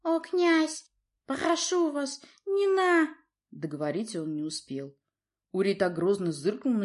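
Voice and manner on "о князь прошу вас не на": much higher lisping plea; lisping wolf. A narrator's reading. Wolf father pleads with the prince, lisping. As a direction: beg the prince with a lisp. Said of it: "Голос заметно шепелявил".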